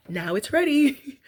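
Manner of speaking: Julia Child impression. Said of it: "she says".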